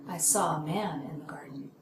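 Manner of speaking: MAN picked out, answering whom was seen; focus on MAN. Shown as a demonstration. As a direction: stress MAN in I saw a man in the garden. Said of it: "Whom did you see?".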